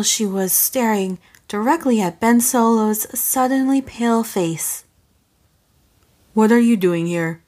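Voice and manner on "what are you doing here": lower, sharp demand; a lightly voiced man demanding. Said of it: "he demanded".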